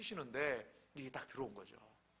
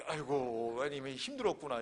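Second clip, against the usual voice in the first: low, sympathetic sigh of words; mild consoling; 3 semitones lower than usual. Acted. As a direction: lightly act out soothing her. Pastor consoling a crying woman.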